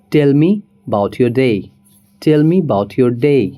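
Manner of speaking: "about" said as "'bout", slow; dropped "a" in about. Shown as a demonstration. Teacher modelling 'bout for about. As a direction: slowly, tell me 'bout your day. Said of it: "about को हम सिर्फ about use करेंगे".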